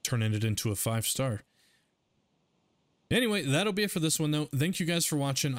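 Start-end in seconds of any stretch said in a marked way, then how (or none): 3.1-5.6 higher, faster energetic sign-off; excited. Shown as a demonstration. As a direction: pump up the outro. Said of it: "that did not work so well".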